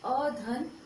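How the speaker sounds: slow, spelled-out vowel sum; slow demo. Shown as a demonstration. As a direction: say each sound slowly for the class. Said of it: "इसमें दो स्वरों का मेल होता है".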